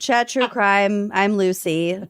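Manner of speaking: bad Minnesotan accent; slow, drawn-out Minnesota vowels. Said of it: "Worst Minnesotan accent".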